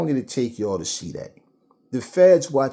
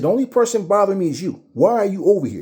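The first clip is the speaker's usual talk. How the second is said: high, loud and fast, an offended woman telling off a cop; indignant retort; 9 semitones higher, 7 dB louder, faster than usual. Retold or imitated. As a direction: fire it back at him, fast and high. Girlfriend snapping at the officer.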